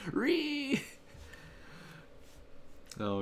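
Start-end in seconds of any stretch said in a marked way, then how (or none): 0.1-0.8 high shrill meme frog screech, much higher; short piercing meme cry; Pepe screech. Pretend. Pepe meme after hashtag free Pepe.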